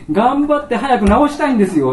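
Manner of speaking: patient eagerly insisting to the doctor; eager insistence. Retold or imitated. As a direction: push hard to be cured.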